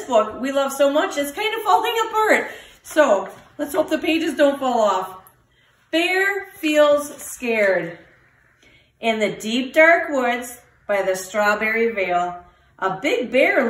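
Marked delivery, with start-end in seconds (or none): 5.9-8.0 slow title read. A narrator's reading. Reads title slowly.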